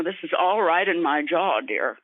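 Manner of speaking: a touch of snooty precision; lightly voiced snob, words crisp. Shown as a demonstration. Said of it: "a really snooty little voice".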